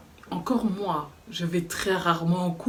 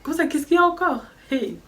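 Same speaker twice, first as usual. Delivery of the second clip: an outraged shout, much higher and louder; losing it; 9 semitones higher, 4 dB louder than usual. Retold or imitated. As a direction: snap and yell back at her in disbelief. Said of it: "j'ai pété un plomb".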